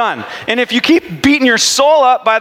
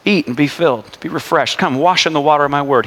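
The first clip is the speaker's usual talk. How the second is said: kind Jesus; 4 semitones lower than usual. Retold or imitated. Jesus inviting a believer to his word, gently. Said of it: "he's always like".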